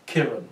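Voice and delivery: Kiran with a short i, like "Kirrun"; clipped first vowel in Kiran, no long "ee"; nan's pronunciation. Retold or imitated. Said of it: "But she said it".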